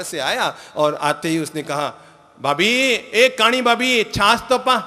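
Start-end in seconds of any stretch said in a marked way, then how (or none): 2.4-4.8 loud, high mocking call; taunting brother-in-law. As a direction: jeer at her like a rude young man. देवर भाभी को पुकारता. (चिढ़ाता हुआ देवर, ऊँची आवाज़ में)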